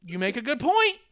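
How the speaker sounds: lightly voiced high, slow schmoozing; mock Shane McMahon pitch. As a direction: pitch it up and drag it like a sly promoter. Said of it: "And then Shane goes".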